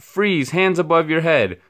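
high loud commanding yell; police shout. A narrator's reading. Policemen surrounding George, loud command shout. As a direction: bark the order.

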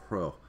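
hro with an H breathed before the R; hro, aspirated at the front; rough breathing on R. Shown as a demonstration. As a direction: start hro on a puff of H, then the R. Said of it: "rough breathing mark".

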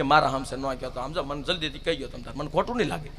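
soft, wheedling, hushed plea; wife softly coaxing her husband to tell. Acted. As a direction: sweet-talk the secret out of him.

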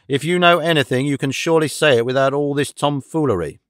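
mildly exasperated demand; a touch of angry impatience; growing angry. Acted. Detective demanding Holmes drop the tomfoolery, mildly angry. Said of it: "to grow red and angry".

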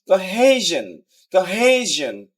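"কোহেশন" with stress on হে; stress before ending. Shown as a demonstration. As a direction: lean on হে in "কোহেশন", let শন fall. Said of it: "শেষের আগেরটা দিতে হবে". ("কোহেশন"-এর হে-তে জোর)

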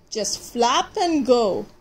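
slow, breezy owl voice; owl hooting. Acted. Owl showing off mid-spin, slow airy hoot. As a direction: hoot it out lazily, slowly. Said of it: "she hooted".

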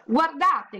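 high excited call. Acted. Zaccarina bursts in to show her parents, excited call. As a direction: grab the parents' attention with a cry. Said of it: "gridò".

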